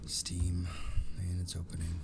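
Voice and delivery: hushed single word; whispering. Real, not acted. Whispered word while app opens.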